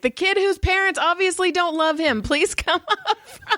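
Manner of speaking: high mocking teacher call; mock announcer. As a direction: sing it out like a teacher calling. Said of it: "I was like".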